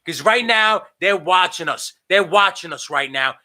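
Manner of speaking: conspiracy rant. Real, not acted. Mock conspiracy rant about they.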